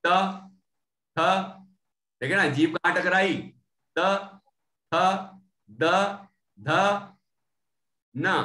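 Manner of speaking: त थ द ध न said one by one, tongue on the teeth; slow letter demo. Shown as a demonstration. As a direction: model each dental letter separately with pauses. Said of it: "इनमें से बोल के देख लो". (दाँत से टकराकर धीरे-धीरे उच्चारण)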